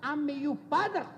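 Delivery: put-on deliberate Italian-accented scolding; mock-stern papa with an Italian accent; Italian father's accent. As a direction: imitate an Italian father shutting his son up. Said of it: "He says".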